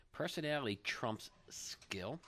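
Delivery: whisper. Acted. Whispered headline in show rundown.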